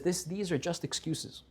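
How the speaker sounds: slow, soft, tearful admission; mild crying. Retold or imitated. The fisherman to Eliyahu, slow soft tearful confession. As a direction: let the tears thin the voice, slowly. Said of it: "he starts crying".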